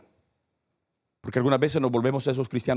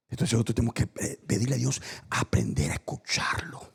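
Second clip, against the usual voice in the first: whispered, on the edge of tears; tearful whisper; 3 semitones lower, 3 dB quieter than usual. Real, not acted. Pastor urges prayer, tearful whisper. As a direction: plead it softly, almost crying. Pleading close of point.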